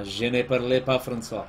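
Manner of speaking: clumsy attempt at French; butchered French. Shown as a demonstration. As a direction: try French with a learner's poor accent. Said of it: "it's probably horrible".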